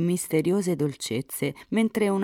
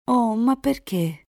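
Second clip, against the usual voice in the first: high, louder exclaimed question; dismayed heroine; 9 semitones higher, 5 dB louder than usual. A narrator's reading. Elisa questioning Enrico about his father, high protest. Girl protests at lover's complaint.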